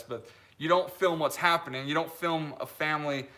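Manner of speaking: ordinary talk, nothing marked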